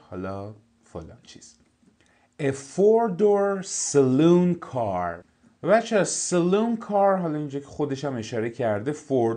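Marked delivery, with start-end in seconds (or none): 2.4-5.2 slow, careful reading of an English text; slow textbook reading. Shown as a demonstration. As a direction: read each word out clearly for the class. Teacher reads English text aloud. (خواندن آهسته و شمردهٔ متن انگلیسی)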